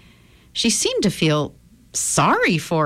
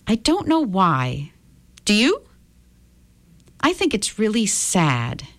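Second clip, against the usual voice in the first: calm; 4 semitones higher than usual. Acted. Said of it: "She said this calmly".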